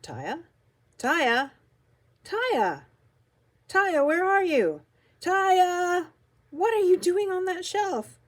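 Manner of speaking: put-on loud, high calls for a lost child; worried dad hollering across a store; calling out. A narrator's reading. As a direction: call out with mounting alarm. Father calling for lost daughter.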